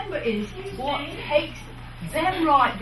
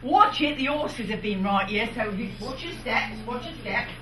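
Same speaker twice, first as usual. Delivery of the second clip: Cockney warning; 2 semitones lower than usual. Shown as a demonstration. Showing fair performers a Cockney warning about horse droppings. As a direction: warn a visitor in Cockney, fading off. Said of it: "we like to focus on is Cockney".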